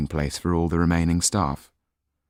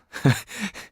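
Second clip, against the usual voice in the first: chuckle; 13 semitones higher than usual. Acted. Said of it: "Michel started to chuckle".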